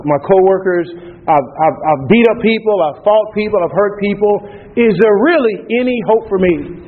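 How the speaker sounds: a broken man begging for hope; desperate drunk. Retold or imitated. The drunk pleads with the deacon a second time, pitched high and straining.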